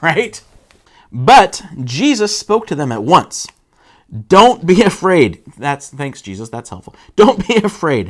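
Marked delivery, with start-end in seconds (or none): 4.3-5.4 firm reassurance. Retold or imitated. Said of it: "he said". 7.1-8.1 Jesus' words through a laugh; giggling quote; laughing mock quote. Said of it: "he said".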